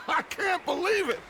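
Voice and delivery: gleeful showman's fury; theatrical outrage. Acted. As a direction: play it up for the whole camp to hear. Leader shows off captured rival.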